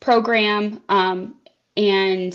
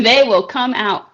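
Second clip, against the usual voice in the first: laughing; 4 semitones higher, 9 dB louder than usual. Real, not acted. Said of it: "They do, don't they?".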